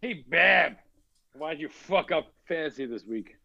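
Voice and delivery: light mock Massachusetts accent. Ribbing Barb over fantasy league, in a Massachusetts accent. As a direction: needle Barb like a Massachusetts local. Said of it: "Massachusetts accent".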